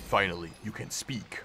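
breathy whisper of first words. Acted. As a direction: whisper it as if speaking for the first time. Voicing the creature's first words.

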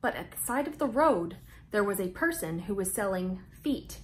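lively storybook read-aloud with big pauses; reading to children. A narrator's reading. Host reading Mouse Tales to young viewers, bright storytelling voice. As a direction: read it out like story time for little kids.

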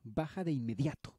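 put-on angry farmer shouting at a girl in his cart. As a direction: bark the order to get down. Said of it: "No tienen por qué gritar".

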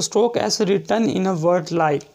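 very slow reading of the rule; teacher dictating a rule; slow dictation. Shown as a demonstration. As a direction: read it out word by word. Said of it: "dictating rule slowly".

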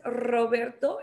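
Roberto with a trilled R; rolled Spanish R. Shown as a demonstration. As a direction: slowly say "Roberto" the Spanish way, rolling the R. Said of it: "es correcto". (Roberto pronunciado con erre vibrante)

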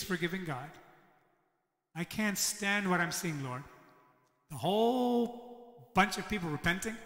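bitter whining to God, slowed on the seeing part; resentful prophet griping at God; upset complaint. Retold or imitated. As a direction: voice Jonah's sulking protest. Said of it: "And he's upset".

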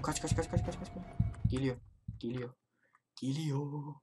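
hushed whisper; tense breathless whisper. Real, not acted. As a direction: whisper to stay hidden. Hiding as monster nears.

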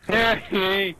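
real outburst, calling out the name; exasperated yell at teammate. Real, not acted. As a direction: yell it at a buddy who messed up. Yelling at teammate during game.

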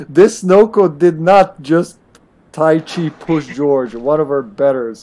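slow, emphatic mock indignation; mock outrage. Player condemning Yoko for pushing George, mock outrage. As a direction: pronounce a playful sentence with weighty slowness.

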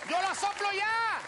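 high, insistent comic protest; hammed-up defiant retort; acted defiance. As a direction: dig in stubbornly against the rule. Acted defiance toward flight attendant.

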